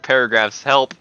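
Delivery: high, loud mock panic; panicked villager voice. Mimicking the villager freaking out over paragraphs. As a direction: squeal it like a frantic little villager. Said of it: "he's, like, freaking out".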